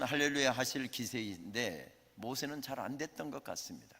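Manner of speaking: usual speaking voice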